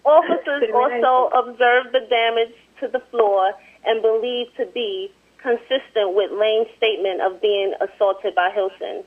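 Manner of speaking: measured, even article reading; amateur newsreader delivery; news report read aloud. Real, not acted.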